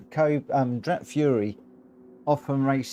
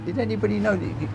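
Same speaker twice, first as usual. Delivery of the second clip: quick, high, amazed question; surprised; 8 semitones higher, faster than usual. Real, not acted. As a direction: blurt it out in disbelief. Surprised by hidden shortcut.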